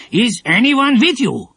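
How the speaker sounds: suspicious. A narrator's reading. Bearded man questioning Dinah, suspicious. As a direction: probe with suspicion.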